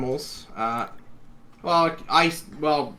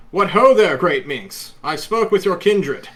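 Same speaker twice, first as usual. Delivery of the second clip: booming regal noble greeting; 6 semitones higher, 7 dB louder than usual. Acted. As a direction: proclaim grandly like a warrior king. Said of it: "I go into my more normal and regal voice now".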